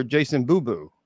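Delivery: Voorhees turned into Boo Boo; mocking mispronunciation. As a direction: tease the botched name as Boo Boo. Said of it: "You're, you're booing".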